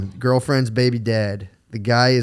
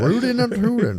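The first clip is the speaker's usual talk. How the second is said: cowboy voice; 12 semitones higher than usual. Pretend. Joking cowboy voice bit.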